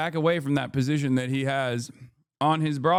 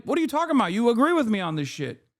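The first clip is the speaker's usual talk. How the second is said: imitating Fuentes; 5 semitones higher, faster than usual. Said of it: "he could just turn around and be like".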